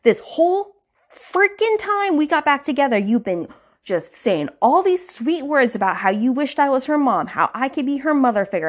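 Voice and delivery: high, indignant mock rant; indignant outburst. Friend retelling Camille telling off Vaughn, high indignant rant. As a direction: play the outraged girlfriend, pitch way up. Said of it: "that sets Camille off".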